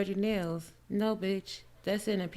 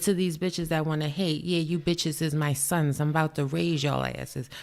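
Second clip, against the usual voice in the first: a rapper's line; 2 semitones lower, 3 dB louder than usual. Retold or imitated. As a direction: toss the line at the haters like the rapper would, barely changing voice. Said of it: "let me give you a Nicki Minaj number one line".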